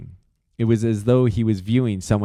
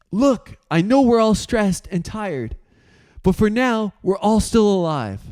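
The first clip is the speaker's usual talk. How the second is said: higher voice, steadying the room; peacemaker; 11 semitones higher than usual. Acted. Flux stepping between the two men, calming. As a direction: step in between them.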